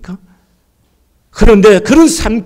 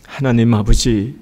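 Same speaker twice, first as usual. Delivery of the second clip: closing prayer; 6 semitones lower than usual. Acted. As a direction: lead the church gently into prayer. (낮고 조용한 기도 목소리)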